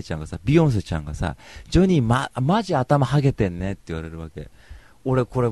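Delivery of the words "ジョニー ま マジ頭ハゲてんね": imitating a brash girl, somewhat louder; loud-voiced party girl. Party girl teasing Johnny about baldness, brash imitation. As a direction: blurt it like a tactless girl. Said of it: "やたらと声がでかい".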